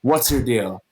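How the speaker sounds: stern demand. Retold or imitated. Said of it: "He slams, slams the table".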